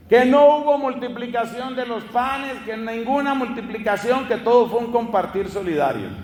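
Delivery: imitating miracle-deniers, pitched high at the start; hint of mocked annoyance; mock indignant objection. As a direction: protest like an irked skeptic, easing down by the end. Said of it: "le tienen rabia a ese milagro".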